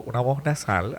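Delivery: lightly imitated nasal radio voice; hint at a broadcaster talking through the nose. Radio veteran showing how a colleague spoke, lightly nasal. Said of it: "así, hablaba así".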